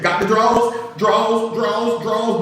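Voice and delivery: astonished courtroom. Retold or imitated. Whole courtroom echoing Tommy's answer, astonished. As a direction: repeat it high, like a scandalized crowd.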